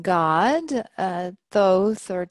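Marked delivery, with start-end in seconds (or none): 1.5-2.1 Thoth said with th at both ends, long o; soft-th pronunciation. Shown as a demonstration. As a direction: say Thoth to rhyme with "both", opening on th. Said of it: "many different ways of pronouncing his name".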